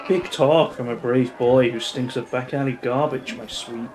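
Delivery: purring, teasing femme fatale; sultry lady voice. Acted. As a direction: play the flirty bar regular. Sultry bar lady speaks.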